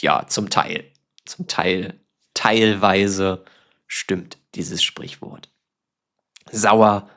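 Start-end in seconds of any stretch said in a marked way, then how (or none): 3.9-5.5 whisper. Real, not acted. Trailing aside.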